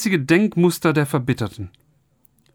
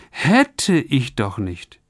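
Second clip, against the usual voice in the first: regretful sigh; 3 semitones lower, much slower than usual. Retold or imitated. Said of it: "Wie oft haben Sie sich schon gesagt".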